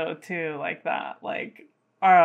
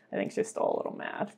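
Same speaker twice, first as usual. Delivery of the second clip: whispered aside; 11 semitones lower, 8 dB quieter, faster than usual. Real, not acted. Aside about the cat.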